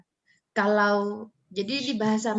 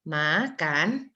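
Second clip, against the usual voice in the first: MAKAN stretched, dipping low then rising; drawn-out tune; 4 semitones lower than usual. Shown as a demonstration. Teacher varying the tune for students, low rising makan. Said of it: "nggak ada bedanya ya".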